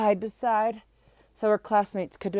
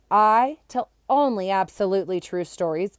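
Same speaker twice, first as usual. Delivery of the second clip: impatient; 6 dB louder than usual. Acted. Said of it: "said impatiently".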